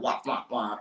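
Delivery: lightly mimicked muffled grown-up babble; Charlie Brown wah-wah. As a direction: imitate meaningless wah-wah chatter in passing. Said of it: "you remember Charlie Brown".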